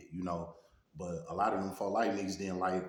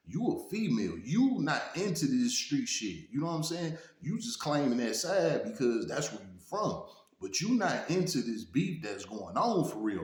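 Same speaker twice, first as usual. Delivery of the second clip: stern lecture; 5 semitones higher than usual. Retold or imitated. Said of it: "So I had to check her".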